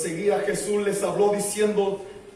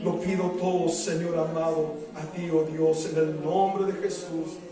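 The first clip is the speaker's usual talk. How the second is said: closing prayer. Real, not acted. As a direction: bring the prayer gently down to amen. Prayer closes. (cierre de oración, grave y sosegado)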